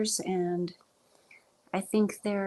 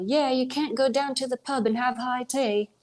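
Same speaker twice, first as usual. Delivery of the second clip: put-on English accent, pitched up; exaggerated English accent; 5 semitones higher than usual. Shown as a demonstration. Streamer showing how Americans overdo it, exaggerated English accent. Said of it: "I think that one's an exaggeration".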